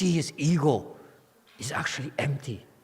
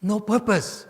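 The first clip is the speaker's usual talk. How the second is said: "no purpose" hit high and loud; emphatic stress; 9 semitones higher, 7 dB louder than usual. Shown as a demonstration. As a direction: drive home "no purpose" with raised pitch and force. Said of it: "emphasis of".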